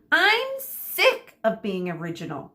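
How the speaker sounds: fed up and cutting it short; understated irritated snap; snapped. Acted. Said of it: "snapped Medusa".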